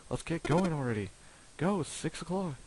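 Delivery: a touch of fury; angry outburst. Acted. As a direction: snap at the group. Santa's outburst.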